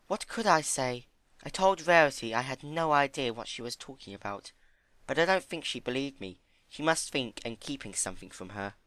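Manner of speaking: high, gentle pony voice; high timid pony. Acted. Fluttershy voiced.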